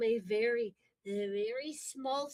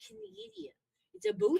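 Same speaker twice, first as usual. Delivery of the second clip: higher Canadian accent, BOOT with long OO; 6 semitones higher, 3 dB louder than usual. Shown as a demonstration. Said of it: "if you're from Canada".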